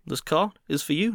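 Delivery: imitated Russian car seller; lightly voiced Russian salesman; Russian accent. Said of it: "I will give you the sentence".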